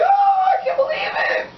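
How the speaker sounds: very high, loud squealed scream; acted scream. She finds no cops came for her, imitated joyful scream. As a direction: scream it out in high-pitched disbelief. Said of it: "uh, she screamed".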